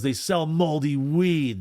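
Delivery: high, slow mock holler; stretched-out half-volume imitation shout; imitated yell. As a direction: mimic a kid calling out a complaint. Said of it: "this kid yells out to me".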